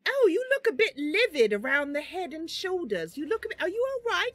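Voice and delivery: high-pitched, concerned character voice; Mister Bun. Acted. Mister Bun checking on feverish Beast, high character voice. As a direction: fuss over a patient in a high voice. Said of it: "Mister Bun says".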